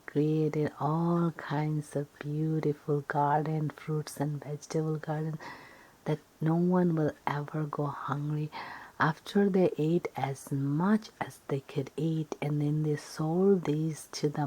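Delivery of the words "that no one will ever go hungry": ordinary delivery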